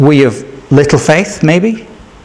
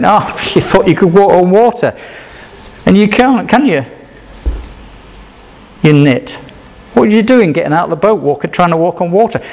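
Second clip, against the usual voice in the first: fast, laughing, teasing scorn; a light mock jeer; mocking Peter; 3 semitones higher than usual. Preacher mimics disciples laughing at Peter, teasing. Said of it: "laughing at Peter".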